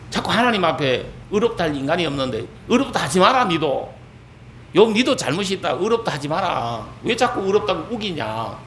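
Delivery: scolding. Retold or imitated. Elihu telling Job to stop complaining, mild scolding. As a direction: take him to task, mildly exasperated. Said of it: "욥을 또 뭐라 하는".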